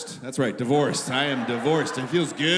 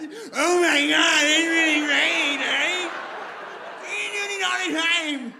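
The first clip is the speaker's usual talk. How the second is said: high, drawn-out mangled wail; meth-head voice; 10 semitones higher, slower than usual. Acted. Party guest after trying meth, high mangled drugged voice. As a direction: slur it high and slow, barely intelligible. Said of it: "What drug causes that voice".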